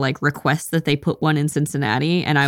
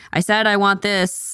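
a bit louder, higher and slower; 3 semitones higher than usual. Retelling how Caitlin repeated her order to the woman, a little bit louder. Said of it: "like a little bit louder".

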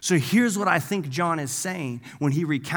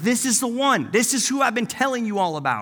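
mock thrilled, eager, excited, pitched-up voice; 7 semitones higher than usual. Retelling someone pointing out the Lamb of God, imitating excited voice. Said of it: "he's excited about it".

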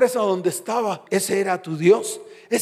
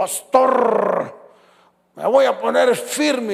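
slow, rough, booming thunder-like voice. Pastor retelling what a bearded man told him: imitating a thunderous voice. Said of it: "como con voz de trueno".

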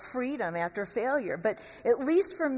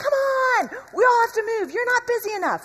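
very high, loud, rude impatient yelling; 11 semitones higher, 7 dB louder than usual. Retelling yelling at a driver sitting at a green light, retelling own loud yelling. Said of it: "I would just start yelling like loudly and not nicely".

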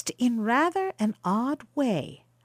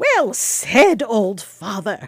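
loud, slow speech through a hearty laugh; 3 semitones lower, 7 dB louder than usual. Narrator reading the traveller replying to the old father, laughing.

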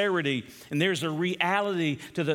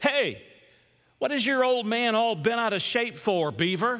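snide, needling, sneering, negative tone; 4 semitones higher than usual. Retelling what Eddie said to Beaver, mock-sneering Eddie voice. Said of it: "he had this negative tone to his voice".

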